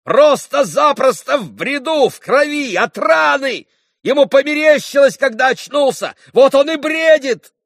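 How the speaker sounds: high, loud scornful shouting; furious mocking outburst; still shouting. A narrator's reading. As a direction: shout them down with contempt. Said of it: "продолжал кричать Митя".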